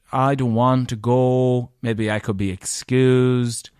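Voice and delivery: slow, mock-sulky plea; childlike pleading. Boyfriend asking to be excused from wedding, childlike pleading. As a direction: drag it out like a reluctant child. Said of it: "I was like a child".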